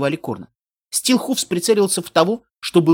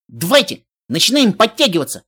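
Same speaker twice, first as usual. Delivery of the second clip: shouted back, higher and urgent; frantic retreat order; 4 semitones higher, 4 dB louder than usual. Acted. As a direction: yell it back over your shoulder. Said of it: "прокричал назад Каламити". (отчаянный приказ на отходе)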